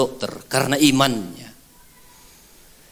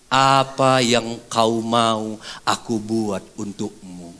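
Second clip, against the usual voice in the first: gentle Jesus; 5 semitones lower, much slower than usual. Acted.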